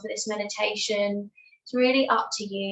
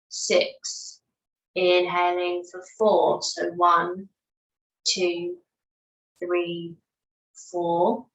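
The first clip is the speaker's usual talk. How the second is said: measured breath count, each number set apart by pauses; unhurried, evenly paced meditation guidance; guided meditation; slower than usual. Real, not acted. Yoga teacher counts listeners through their breaths, guided meditation.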